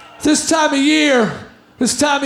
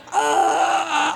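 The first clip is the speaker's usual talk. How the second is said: choking up; 4 dB quieter than usual. Retold or imitated. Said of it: "I'm going".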